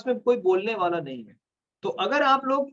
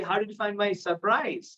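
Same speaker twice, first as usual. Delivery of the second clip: slow, careful demo of the sentence; slow demo line; much slower than usual. Shown as a demonstration. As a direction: say it slowly for the learner. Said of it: "girlfriend या boyfriend से बोल सकते हैं कि". (धीमे से बोला गया उदाहरण)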